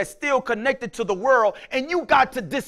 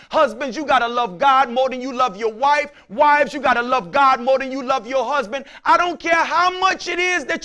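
louder, driving preacher cadence; preaching hard; 3 dB louder than usual. Acted. Pastor pressing husbands and wives, loud and driving. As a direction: drive it home to the pews.

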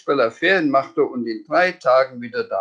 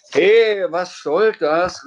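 high, loud "Hey" flung upward; indignant call; 9 semitones higher, 5 dB louder, slower than usual. Acted. Sams ruft empört zur Wunschmaschine hoch. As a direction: shout up at the machine in outrage. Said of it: "rief der Sams zur Wunschmaschine hoch".

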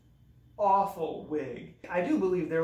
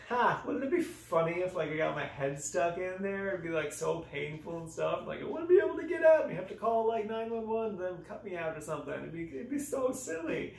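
giddy naive musing; 2 semitones higher than usual. Retold or imitated. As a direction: act out a silly bright idea. Imagining own foolish idea, giddily.

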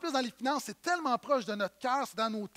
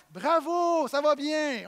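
louder, higher, sarcastic congratulation; mock praise; 5 semitones higher, 5 dB louder, slower than usual. Pastor mocking the disciples, sarcastic praise. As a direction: praise them like slow pupils.

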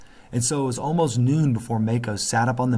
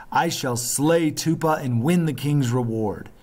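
put-on higher, fierce vow of a boy; fierce cry; 5 semitones higher than usual. A narrator's reading. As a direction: swear it out with boyish fire. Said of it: "cried fiercely".

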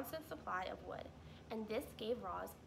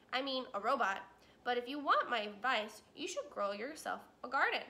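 louder, friendly gruff beaver; Mister Beaver advising; 5 dB louder than usual. Acted. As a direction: give advice as the beaver.

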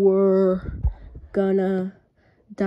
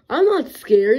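loud denial; 2 semitones higher, 6 dB louder than usual. Acted. Denying being scared.

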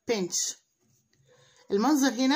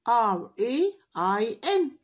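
spelling aloud; much slower than usual. Shown as a demonstration. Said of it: "عشان نحفظها".

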